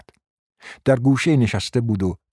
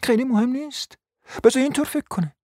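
much higher, scornful brush-off; dismissive; 14 semitones higher than usual. A narrator's reading. Wife brushing off husband's worry, high scornful. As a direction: wave him off scornfully.

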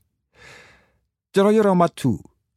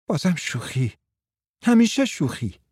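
grumbling; 4 semitones higher than usual. Acted. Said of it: "مارتا قرولند کرد".

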